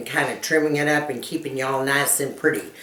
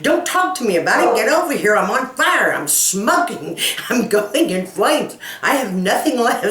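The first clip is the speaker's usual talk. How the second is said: panicked yelling; 6 semitones higher than usual. Retold or imitated. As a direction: yell it like you're burning and desperate. Panicked mother retelling burning.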